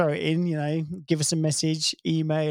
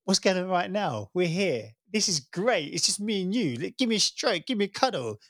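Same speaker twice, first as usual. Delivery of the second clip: higher, gushing happy-dog voice climbing to a squeal; excited dog; 6 semitones higher than usual. Retold or imitated. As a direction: voice the dog's joy, ending in a high whoa. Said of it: "He's just like".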